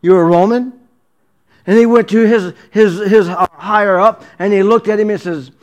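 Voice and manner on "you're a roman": taken aback, mock-startled double take; startled question, lightly hammed up; shaken. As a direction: act out a shaken captain's disbelief. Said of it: "kinda shook the, the, that chief captain up".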